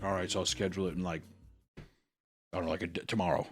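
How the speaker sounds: low, soft, fast offhand mumble; mock casual mumble. Podcaster mocking the hero's email plan, offhand mumble. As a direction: mumble it like it's no big deal. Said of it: "he's like".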